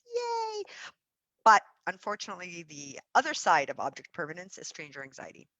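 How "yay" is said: high, bright little cheer; a quick mock cheer; excited cheer. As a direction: celebrate like it's great news. Cheering a milestone.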